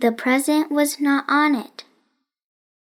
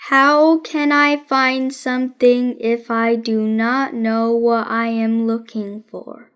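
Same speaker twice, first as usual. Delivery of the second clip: a hint of a dry boy detective, taking his time; deadpan detective Nate; 3 semitones lower than usual. Nate voiced in read story.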